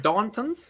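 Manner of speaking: rising question on "Dartons"; questioning tune. Shown as a demonstration. Host checking his guest's name, rising questioning "Dartons". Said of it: "How do you say it?".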